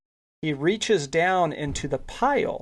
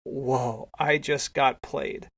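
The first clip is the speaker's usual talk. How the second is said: retold stunned disbelief, softer and drawn out; dumbstruck; 4 dB quieter, much slower than usual. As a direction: let it sink in slowly, subdued. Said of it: "Chris is just dumbstruck".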